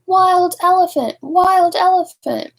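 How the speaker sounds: high, loud panicked warning; screaming crowd. Acted. Fleeing people warning each other, screaming high and loud. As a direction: shout it while fleeing. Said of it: "run away screaming".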